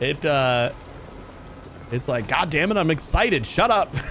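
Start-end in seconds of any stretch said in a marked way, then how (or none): 2.3-3.9 play-acted touchy, defensive bot voice. Acting out how the chat bot answers when yelled at: imitating a defensive bot. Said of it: "it'll get really defensive".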